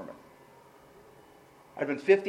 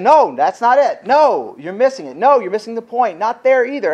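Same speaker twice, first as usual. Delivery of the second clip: voice of God; 4 semitones higher, 9 dB louder than usual. Retold or imitated. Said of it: "And God's saying".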